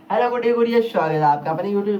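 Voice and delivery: lightly imitating a cheery YouTube host; mock YouTuber greeting. Teacher mocking other YouTubers' intros, lightly hammed up. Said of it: "आपका वो सीधा ऐसे कहेंगे".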